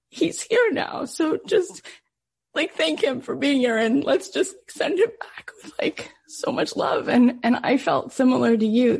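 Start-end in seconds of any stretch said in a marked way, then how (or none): 0.1-7.1 choked up. Real, not acted. Speaking to kids about lost son.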